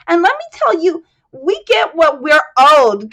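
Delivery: put-on high and loud, indignant old woman; aggrieved widow. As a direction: she wants what she's owed, say it hard. Widow rants at the bar.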